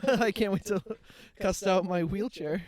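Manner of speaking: high, loud, gleeful voice; mock excited voice. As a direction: squeal it with glee. Voicing a laughing wheelchair guy.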